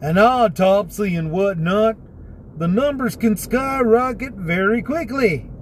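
light rural Texas twang; hillbilly country accent. Retold or imitated. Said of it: "I'm actually imitating how that guy talks".

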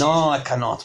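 hammed French-accented confession; deliberately clumsy French-style English; terrible French accent. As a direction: put on a bad French accent. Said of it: "My accent's so terrible".

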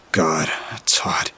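whispered under the breath; breathy aside of disgust; exasperated whisper. Real, not acted. Narrator's exasperated inner thought.

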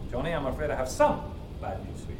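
"some" picked out, then "bad news for you" dropped low and soft; stress on some. Shown as a demonstration. Teacher showing a class how emphasis changes meaning, stress on "some". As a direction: lean on "some", let the rest fall away. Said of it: "Completely different meaning by changing the emphasis".

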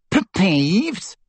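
a baffled stammered question; stammering. A narrator's reading. Filch stammering at a strange order, baffled. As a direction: trip over the first sound. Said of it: "stammered Filch".

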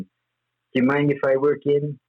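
put-on a touch of childlike politeness; polite, childlike. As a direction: ask meekly, like a well-mannered child. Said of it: "in the most polite, childlike way".

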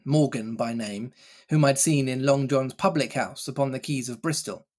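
ordinary delivery

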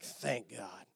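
a soft, muttered "thank God"; quiet relieved aside; mock relief. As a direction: sigh it out with relief. Jonah relieved, drowning.

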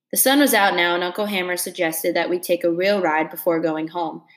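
steady read-aloud narration for a class; story reading. A narrator's reading. Teacher reading a novel chapter to her class, steady narration.

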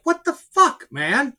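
sudden high exasperated yelp; retold frustrated outburst. Recalling sold-out tickets to a friend, high mock-outraged outburst. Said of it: "I'm like".

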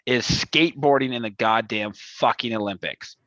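a hammed-up angry rant, swearing at the sport; mock rant. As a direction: rant like an outraged sports fan, half in jest. Staged rant segment on skateboarding.

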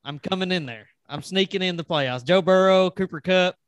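cocky wrestler trash talk, trailing off; wrestling promo. Pretend. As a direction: warn them like a heel wrestler. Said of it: "I feel like I should cut a promo".

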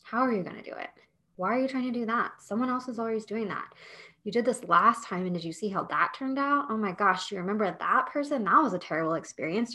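quick, hushed, nagging doubts; whispering inner critic. Retold or imitated. Podcast host voices the inner critic to listeners, hushed and quick. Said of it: "it whispers in your ear and it says".

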